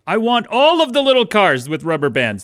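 high, whiny British brat; spoiled child, British accent. Acted. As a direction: demand it like a pampered British kid wheedling Daddy. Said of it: "they have a British accent".

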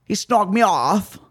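slow, lightly mocked British voice; British reality-show accent. Imitating Geordie Shore cast, slow light British accent. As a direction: draw it out in mock British. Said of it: "That's what they're like".

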